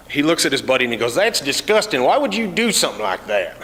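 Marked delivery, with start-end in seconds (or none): 1.1-3.6 mock disgusted redneck. Redneck voiced in mall story.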